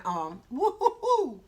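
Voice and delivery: giddy woo-hoo laugh. Real, not acted. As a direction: laugh at the spicy bite. Reacting to the heat.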